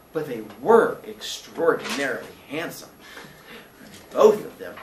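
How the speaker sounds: slow, lingering admiration; lightly voiced admiring landlady. Landlady praises past guests to Billy, lightly admiring. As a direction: dwell slowly on each compliment, lightly in character.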